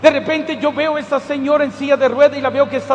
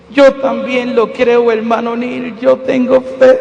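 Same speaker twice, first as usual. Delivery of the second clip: sad, resigned; 3 semitones lower, 4 dB louder, slower than usual. Retold or imitated. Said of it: "y con una tristeza me dice".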